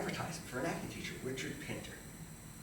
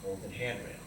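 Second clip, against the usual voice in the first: hushed awe; 7 dB quieter, slower than usual. Retold or imitated. Recalling awe inside the theater.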